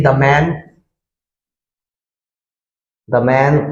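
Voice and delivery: the said as "thuh", short uh; short "thuh" before man; "thuh" before consonant. Shown as a demonstration. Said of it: "अब दा तो आप बोल दीजिए".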